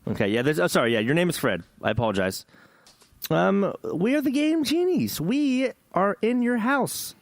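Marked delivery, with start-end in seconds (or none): 3.3-7.1 mock spooky voice. Spooky podcast intro voice.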